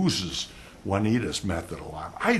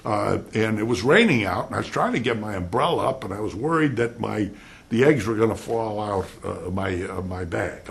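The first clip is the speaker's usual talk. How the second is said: rambling witness; 3 dB louder than usual. Retold or imitated. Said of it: "and the puppy says".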